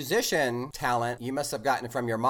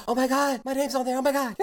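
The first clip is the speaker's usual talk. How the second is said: excited; 9 semitones higher than usual. Retold or imitated. Retelling seeing her name on poster.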